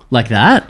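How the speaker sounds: imitating a laughing gasp. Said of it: "all of a sudden you go".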